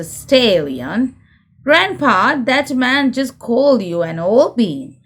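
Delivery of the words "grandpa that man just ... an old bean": Peppa's cry. Acted. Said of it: "cries Peppa".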